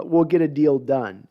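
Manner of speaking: slow, weighty coach promise; deliberate delivery. Shown as a demonstration. Mimicking the coach's deal promise, slow and deliberate. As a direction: lean on each word to sound committed. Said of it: "Can you hear the different way I said that?".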